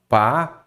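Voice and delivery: "Pareceu" said as pa... re... céu, with long gaps; one syllable at a time in "Pareceu"; split into syllables. Shown as a demonstration. Teacher testing for a hiatus, "Pareceu" broken into syllables. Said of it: "Se não separou as vogais".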